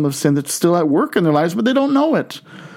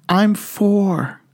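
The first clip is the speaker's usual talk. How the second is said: put-on whispered, breath only, like a small boy; child's whisper; 5 semitones higher than usual. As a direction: hush it like a hiding child. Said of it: "Still whispering".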